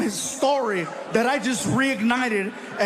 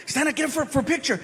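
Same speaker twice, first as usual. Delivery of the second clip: much higher, eager call; friend calling out; 6 semitones higher, much faster than usual. Retold or imitated. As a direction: chirp it up high like an excited buddy. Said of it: "my buddy Anthony telling".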